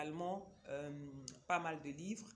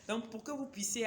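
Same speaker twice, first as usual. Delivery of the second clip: laughing; 5 semitones higher, 3 dB louder than usual. Real, not acted. Still laughing after her stumble.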